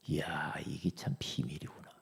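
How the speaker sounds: soft whispered amazement; hushed wonder. Retold or imitated. Preacher recalling his discovery, hushed wonder. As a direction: marvel under your breath.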